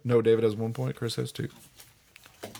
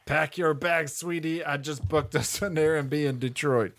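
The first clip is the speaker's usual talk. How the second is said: put-on Chicago accent; slower than usual. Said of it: "Straight up Fargo".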